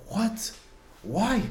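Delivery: high-pitched, swooping questioning; baffled disbelief. Retold or imitated. Man questioning his own thoughts during chanting, high baffled disbelief.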